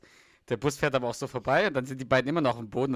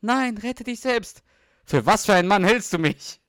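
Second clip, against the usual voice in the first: higher and louder heroic shouting; shouted film scene; 8 semitones higher, 5 dB louder than usual. Retold or imitated. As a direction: yell it like a hero in a disaster film. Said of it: "Und dann später". (hoch und laut, heldenhaft gerufen)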